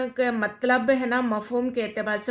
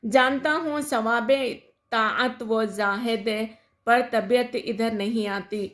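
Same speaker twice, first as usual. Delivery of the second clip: poem recitation. Shown as a demonstration. Teacher recites the couplet. (ٹھہر ٹھہر کر شعر پڑھنا)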